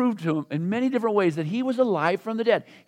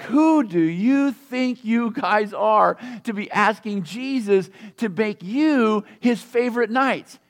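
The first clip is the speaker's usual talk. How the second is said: mock angry disciples; slower than usual. The other disciples rebuking James and John, hammed-up indignation. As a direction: scold the two brothers like a jealous rival. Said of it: "It says they got mad".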